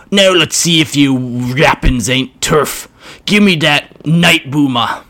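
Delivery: a brutish orc taking his time. Acted. Orc voiced in story.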